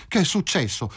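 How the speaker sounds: high, alarmed near-cry; near shout. Acted. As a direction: jump up with the question. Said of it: "quasi gridò Filomena".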